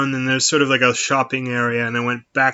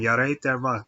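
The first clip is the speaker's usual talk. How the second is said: amateur attempt at northern English; not very good northern English accent; 4 dB quieter than usual. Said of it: "not very good northern accent".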